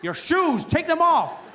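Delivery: loud, slow, bossy order; mock security guard shouting; barking officer. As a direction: bark it like airport security. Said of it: "I'm like".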